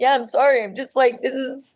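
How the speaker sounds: high, cracking, tearful voice. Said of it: "she heard my voice cracking".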